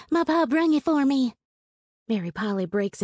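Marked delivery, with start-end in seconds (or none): 0.1-1.3 high, loud boast; girl shouting with pride; shouting proudly. A narrator's reading. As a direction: call it out so everyone hears. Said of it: "Hazel shouts".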